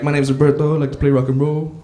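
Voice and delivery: lightly voiced Mexican accent; a hint of a Mexican accent in an easy voice; soft-spoken Mexican. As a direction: imitate a mild-mannered Mexican singer. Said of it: "real soft-spoken Mexican guy".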